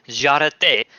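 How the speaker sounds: "Joroté" as zha-ra-TAY with a tapped r; learner's imitation of French "Joroté"; attempted French pronunciation. Shown as a demonstration. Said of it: "How do I pronounce that in French".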